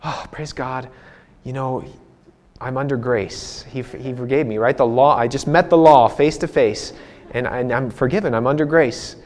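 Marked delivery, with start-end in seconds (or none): 0.0-4.6 a hushed relieved prayer after the warning; relieved thanks. Retold or imitated. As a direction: breathe it out, thankful to be let go. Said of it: "I was like".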